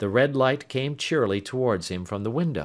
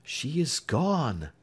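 hushed grief; 4 semitones higher, much slower than usual. Acted. Hushed reply from the crowd.

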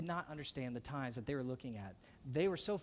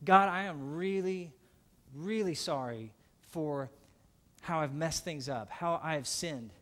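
pleading prayer; 6 dB louder than usual. Acted. Preacher voicing his repentant prayer.

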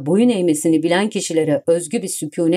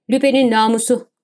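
ordinary delivery, nothing marked

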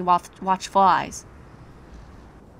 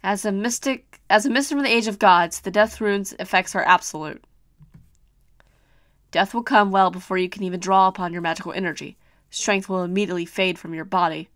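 calm ominous prophecy; 2 semitones lower than usual. Acted.

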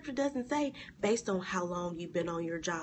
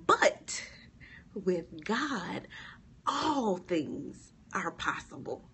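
hushed reading; much slower than usual. Acted. Scripture climax, hushed slow reading.

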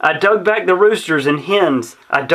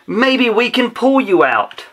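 shout; 6 semitones higher than usual. A narrator's reading. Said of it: "I heard him shout".

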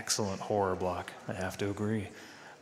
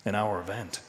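noir detective; 3 semitones lower than usual. Pretend. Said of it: "read this next part in your best noir voice".

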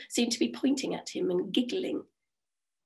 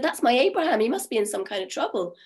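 worried wife; 2 semitones higher, 4 dB louder than usual. Acted. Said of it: "She said".

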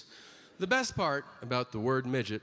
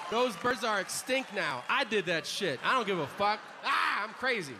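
high, wild crazed boasting; manic gloating; 8 semitones higher than usual. Acted. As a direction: gloat like a maniac. Crazed boast after killing birds.

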